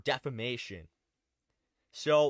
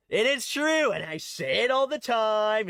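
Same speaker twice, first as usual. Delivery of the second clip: emphatic; 5 semitones higher, 6 dB louder than usual. Real, not acted. Emphatic outburst agreeing.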